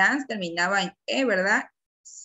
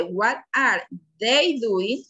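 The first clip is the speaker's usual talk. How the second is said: slow, deliberate classroom question; measured, drawn-out question; slow modelled question; much slower than usual. Shown as a demonstration. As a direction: space the words out for learners. Teacher quotes model question for class.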